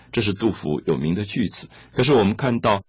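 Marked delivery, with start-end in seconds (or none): none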